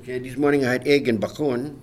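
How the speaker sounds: softly spoken Hawaiian pidgin. Shown as a demonstration. Telling a friend about breakfast, Hawaiian pidgin accent. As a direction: talk story in Hawaiian pidgin, quietly. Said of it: "have a conversation in pidgin".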